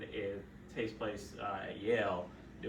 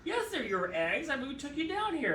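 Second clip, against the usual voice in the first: reassuring doctor; 5 dB louder than usual. Retold or imitated. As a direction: calmly correct her, high pitched. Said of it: "I go".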